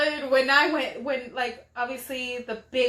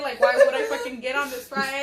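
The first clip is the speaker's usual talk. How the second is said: laughing yell; 3 dB louder than usual. Real, not acted. Recalls ride, laughing cry.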